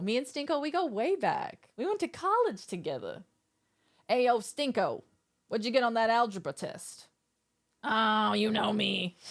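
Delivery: a hint of a silly elf buddy bragging; Stinko voice. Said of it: "That's my Stinko voice".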